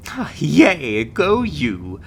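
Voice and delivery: loud, swooping congratulations; perky cheering. Acted. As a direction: cheer them on like a peppy recruiter. Recruiter cheers the new signing.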